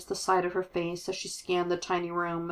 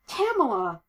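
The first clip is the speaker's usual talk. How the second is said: delighted shout; 5 semitones higher than usual. Acted. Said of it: "a screech of delight".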